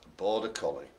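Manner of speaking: put-on a soft, lightly drawn Arkansas accent. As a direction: say the dog's name like a Southern host from Arkansas. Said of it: "For some reason in the Arkansas accent".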